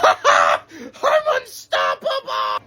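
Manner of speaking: very low, slow laughing brag; deep laughing boast. Acted. Brute boasts to his friends with a deep laugh. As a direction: laugh it out like an unstoppable giant.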